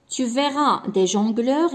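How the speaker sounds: very slow, word by word; slow dictation. Shown as a demonstration. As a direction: read it slowly for the pupils to follow. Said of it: "غادي نديرو بوان". (إملاء بطيء جدا)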